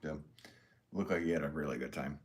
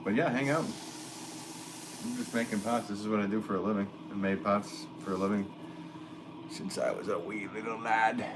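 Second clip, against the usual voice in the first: half-hearted Irish lilt, a wee lad bit; playful Irish brogue for the chat; mock Irish accent; 3 semitones higher than usual. Potter jokes about his trade in mock Irish accent. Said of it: "Somebody said top of the morning to you".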